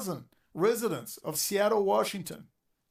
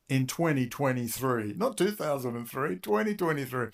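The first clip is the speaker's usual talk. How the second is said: mocking Tucker; 5 semitones lower than usual. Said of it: "Tucker comes out and says".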